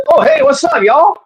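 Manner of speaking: a clueless alien strolling in, saying hi; naive friendly alien. Retold or imitated.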